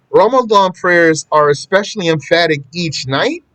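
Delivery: lightly acted puzzled reader, ending on a rise; imagined questioner. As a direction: read it back as if querying the statement. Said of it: "a type of person who would see this statement".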